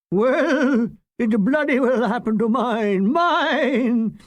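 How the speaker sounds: mock theatrical outrage; ham actor. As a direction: overact like a melodrama villain. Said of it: "clawing the air like a ham actor".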